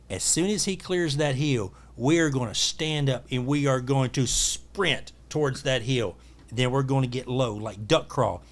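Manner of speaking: slow, spaced-out game plan; deliberate instructions. Retold or imitated. Guide telling his guest the plan, slow and deliberate. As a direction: lay out each step slowly and firmly.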